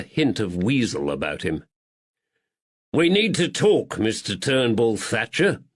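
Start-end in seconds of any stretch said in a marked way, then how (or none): 2.9-5.6 sharp. Acted. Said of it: "Woods said sharply".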